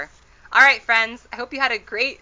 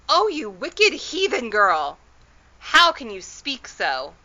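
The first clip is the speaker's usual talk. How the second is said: slow, higher, louder reproach; horrified scolding; 4 semitones higher, 5 dB louder, slower than usual. A narrator's reading. Mother reproaching her daughter, slow and horrified. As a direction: drag out the words in dismay.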